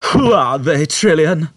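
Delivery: high, loud, irritated shout; annoyed outburst. A narrator's reading. Zaphod bursting out at Trillian in annoyance. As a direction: snap it out at her, fed up. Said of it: "burst out in annoyance".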